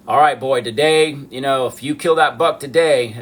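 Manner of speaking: folksy Southern dad impression. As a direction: imitate a Southern father laying down plans. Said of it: "that's how my dad spoke".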